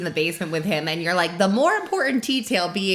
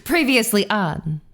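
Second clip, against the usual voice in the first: recap intro; slower than usual. Shown as a demonstration. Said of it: "Wait, no, in".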